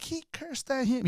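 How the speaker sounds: put-on high, slow child-like telling; mock kid voice, drawn out; imitated tattling kids. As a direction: mimic scandalised kids tattling.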